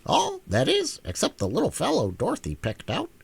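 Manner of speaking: lightly voiced hen, wry; a dry little joke. Hen joking about the enchanted children, lightly wry. Billina explains.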